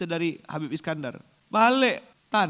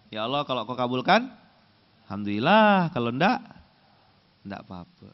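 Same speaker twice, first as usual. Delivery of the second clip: careless shrug of a prayer, fading away; indifferent prayer; 3 semitones lower, 4 dB louder, faster than usual. Shown as a demonstration. Preacher mimicking a lazy worshipper, shrugging. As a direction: pray as if you don't care if it's answered. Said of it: "Gimana intonasinya?".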